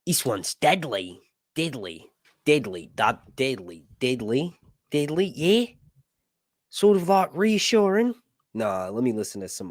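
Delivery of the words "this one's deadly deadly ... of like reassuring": testing an Australian accent, word by word; tentative imitation Australian; Australian accent attempt. Shown as a demonstration. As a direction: feel out Australian vowels, unsure. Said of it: "All right, let me try again".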